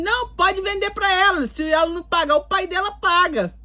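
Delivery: high-pitched, assertive vouching; imitated godfather. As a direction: mimic an uncle stepping in to vouch. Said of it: "Aí meu padrinho falou assim".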